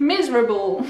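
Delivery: Miserable with the A swallowed; English miserable. Shown as a demonstration. Teacher repeating Miserable. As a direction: say Miserable as miz-ruh-bul. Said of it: "n'est pas prononcé A".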